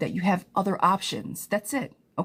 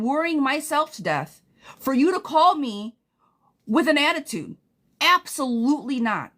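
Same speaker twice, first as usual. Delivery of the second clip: fired up; 4 semitones higher than usual. Real, not acted. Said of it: "I'm getting angry for you".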